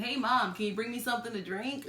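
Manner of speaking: imitating lazy vocal fry. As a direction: drag it in creaky fry. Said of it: "his weird vocal fry".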